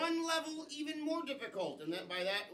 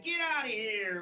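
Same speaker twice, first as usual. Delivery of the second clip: demo cue; 5 dB louder than usual. Shown as a demonstration. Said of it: "everyone say".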